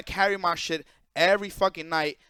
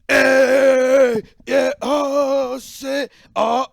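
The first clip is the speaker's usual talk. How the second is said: loud, higher party yelling; partying whoop; 6 semitones higher, 10 dB louder, much slower than usual. Retold or imitated. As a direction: whoop it up like you're having a blast. Friend partying as cops arrive.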